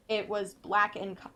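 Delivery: talking with hiccups; hiccuping between words. Real, not acted. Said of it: "Ooh, I got the hiccups".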